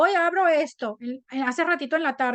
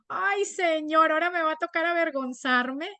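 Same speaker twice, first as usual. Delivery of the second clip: mock dismay; 2 semitones higher than usual. Woman dreading an embarrassing apology to the man, mock dismay. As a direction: wail it lightly, stretching the opening words. Acts her dismayed reply to God.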